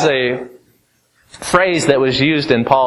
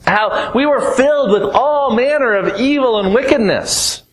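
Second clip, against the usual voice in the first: building sermon cadence; 5 semitones higher than usual. Acted.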